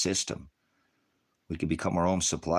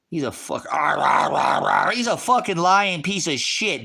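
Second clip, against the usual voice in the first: loud, much higher raging yell; real rage, shouted and pitched up; furious shout; 7 semitones higher, 6 dB louder than usual. Real, not acted. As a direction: roar out real fury. Ranting about a politician.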